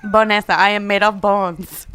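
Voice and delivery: mock Spanish accent. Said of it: "offensive Spanish accent".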